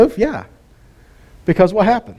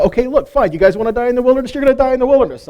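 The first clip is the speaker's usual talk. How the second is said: exasperated God; 8 semitones higher, much faster than usual. Retold or imitated. God fed up with complaints.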